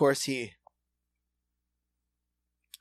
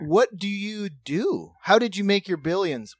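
feigned fascination; 4 semitones higher, 3 dB louder than usual. Retold or imitated. Feigns interest in drunk's boast.

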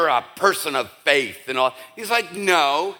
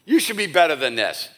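mock scolding; 3 semitones higher than usual. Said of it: "No, he doesn't say that".

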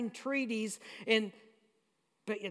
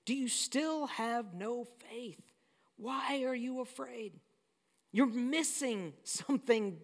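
gentle rebuke. Retold or imitated. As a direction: chide them gently, slowly. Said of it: "But the scolding is".

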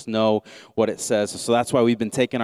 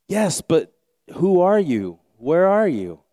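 high, louder confused shouting; anxious calling out; 7 semitones higher, 4 dB louder than usual. Acted. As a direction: call out, startled and searching. Jack calls out.

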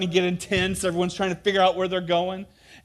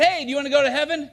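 good prophet voice; 9 semitones higher, 5 dB louder, much faster than usual. Retold or imitated.

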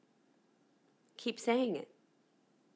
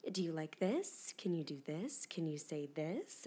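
mock producers; 6 semitones lower, 10 dB quieter than usual. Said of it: "I said".

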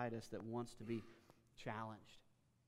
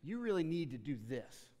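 loud, higher, scolding lecture; 6 semitones higher, 8 dB louder than usual. Retold or imitated. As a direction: scold someone without encouragement, loud and high. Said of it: "Somebody looks at you and says".

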